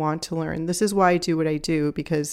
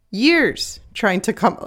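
sudden high, drawn-out burst on one word; emphatic little yell, pitched up; accidental yell; 4 semitones higher, 4 dB louder, slower than usual. Real, not acted. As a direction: blurt it out too loud, stretching it. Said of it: "I'm sorry I yelled that".

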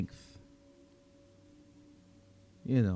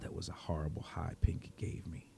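breathy whispered groan; vampire mutters the morning after, whispered; hungover whisper; 3 semitones lower, 10 dB quieter than usual. Acted. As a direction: whisper it like a pounding headache.

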